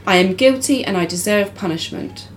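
light attempted Russian accent; slight Russian accent with a rolled r. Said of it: "Which I don't know Russian accent".

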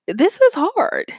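high, slow mock grumble; whiny put-on protest, stretched out; mock complaint. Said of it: "who think it's a nuisance".

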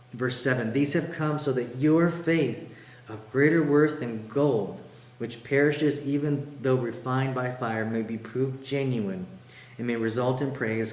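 emphatic, measured Bible reading; scripture reading. Acted. Preacher reading Peter's letter to the church, emphatic. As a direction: read it out with weighty pauses.

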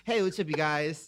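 lightly put-on straight-guy vlogger greeting; slow, mock straight-dude hello; fake straight voice. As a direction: imitate yourself faking a straight voice, slow. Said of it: "making a fake straight voice".

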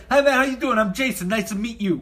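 lightly voiced Bronx guy; a hint of brash Bronx in an eager introduction; Bronx accent. Branch head introducing himself, in a light Bronx accent. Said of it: "from the Bronx or something".

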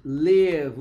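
"live" said with a short vowel, like "lev"; teacher showing students the sound: "live" clipped short. Shown as a demonstration. Professor mostra o som de "live", vogal curta. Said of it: "o som".

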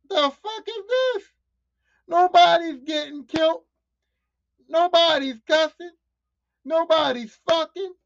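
high, loud, exasperated complaint; baffled moviegoer griping loudly; indignant disbelief. Retold or imitated. Acting out his reaction to movie.

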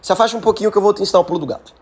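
a light hint of a crafty cat; cat agreeing. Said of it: "E aí o gato falou".

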